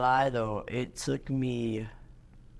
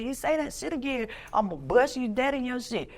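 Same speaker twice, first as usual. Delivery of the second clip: retold threat; 10 semitones higher than usual. Threatening the big man.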